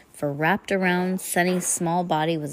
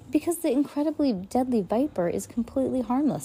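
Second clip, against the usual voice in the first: villain; 7 semitones higher than usual. A narrator's reading. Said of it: "show off".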